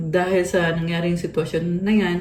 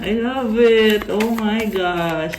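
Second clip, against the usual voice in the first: slow, drawn-out excited gush; excited, lifted then easing down; gushing delight; 3 semitones higher, 3 dB louder, slower than usual. Real, not acted. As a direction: savour it with real delight. Gushes over congratulations card.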